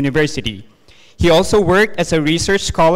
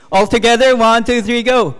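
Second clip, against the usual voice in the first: high, bright call to the crowd; excited countdown; 7 semitones higher, 3 dB louder than usual. Real, not acted. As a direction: lead the room in a countdown. Host leads audience bee sound.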